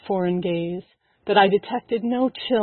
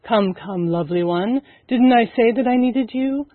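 soothing. Acted. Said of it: "I soothed".

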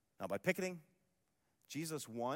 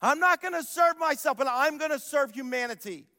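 louder repeat; 7 semitones higher, 7 dB louder than usual. Retold or imitated. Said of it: "he says".

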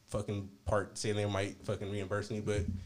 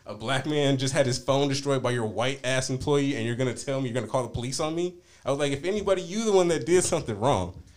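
retold indignation, louder than usual; indignant confrontation; 3 semitones higher, 5 dB louder than usual. Customer retelling his reply to a threat of police, indignant. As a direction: push it out loud, accusing the other person. Retold quarrel with store owner.

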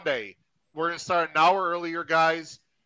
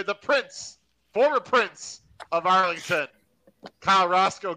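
higher-pitched, punchy announcer roll call; show announcer introduction; 4 semitones higher, 4 dB louder than usual. Real, not acted. Host brings on his co-hosts for the Breeders' Cup, announcer style. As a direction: bring on the co-hosts with rising showmanship.

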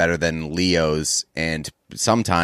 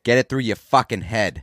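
mild try at a Boston accent; lightly Bostonized movie line; attempted Boston accent. Shown as a demonstration. Co-host asked to try the movie line, mild Boston accent. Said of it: "Try to do that line".

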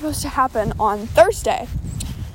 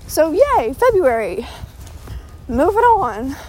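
breathless mock cheer; panting a little while walking; out of breath; 2 semitones higher, slower than usual. Real, not acted. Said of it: "I am so out of breath right now".

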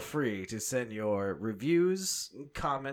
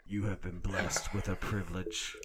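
serial killer voice; 3 semitones lower, 3 dB quieter than usual. Acted. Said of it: "fantastic serial killer voice".

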